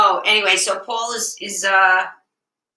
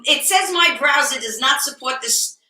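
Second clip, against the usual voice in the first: imitating flustered Judy; 6 semitones higher, slower than usual. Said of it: "Judy calls me".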